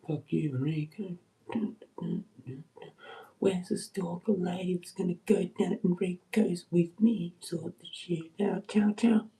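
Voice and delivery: cheeky goodbye taunt; mock taunt. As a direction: taunt Enrico with a smirk. Taunting Enrico.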